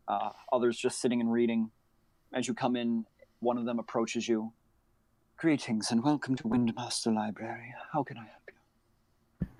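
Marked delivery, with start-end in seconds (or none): 5.4-9.5 hushed librarian. Acted. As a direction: keep your voice down, you're in a library. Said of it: "you sounded very tired".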